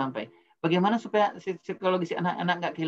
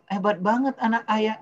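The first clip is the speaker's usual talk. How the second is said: raised, louder over-praising; the wrong way, heaped-on praise; gushing praise; 5 semitones higher, 4 dB louder than usual. Retold or imitated. Father showing how not to praise his son, gushing and louder. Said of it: "jangan bilang".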